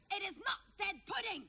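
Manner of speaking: high, emphatic imitation of a fed-up father; exasperated dad. Exasperated dad retold, correcting the kids.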